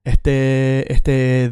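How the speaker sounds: "este" with the final e dragged out; thinking filler. Shown as a demonstration. Teacher showing how Latin Americans stall, drawn-out vowel. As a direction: hang on the end of "este" like an uh. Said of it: "when they are thinking".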